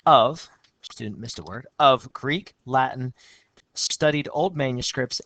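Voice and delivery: steady reading of a student's essay; essay read aloud. Shown as a demonstration. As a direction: read the student's lines out clearly.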